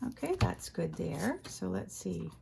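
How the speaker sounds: sleepy just-woke-up voice; morning voice. Real, not acted. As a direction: speak like you just got up. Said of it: "I have morning voice".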